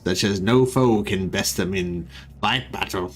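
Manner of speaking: lightly voiced solemn warlord speech; space marine voice. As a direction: declaim it like a Skaven commander, understated. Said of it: "whether I was doing a space marine voice or a Skaven voice".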